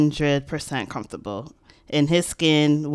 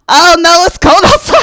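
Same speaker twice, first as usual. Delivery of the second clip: much higher and louder, laughing off being caught; flustered denial; 12 semitones higher, 15 dB louder than usual. Retold or imitated. Telling a stranger she wasn't crying, high flustered excuse. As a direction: brush it off in a high, bright rush. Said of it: "And I was like".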